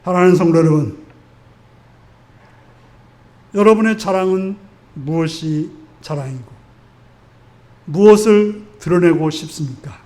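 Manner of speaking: hushed close of a sermon, easing down at the end; prayer invitation. Real, not acted. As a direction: gently lead the congregation into prayer, leaving space between phrases. Leads congregation into closing prayer.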